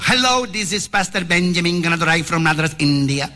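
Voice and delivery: lightly put-on Indian English accent on the pastor's greeting. Pastor answering the phone from India, in a light Indian English accent. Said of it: "Porque así hablan ellos".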